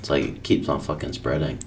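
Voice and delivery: hushed whisper; breathy, unvoiced aside. Real, not acted. Whispered complaint.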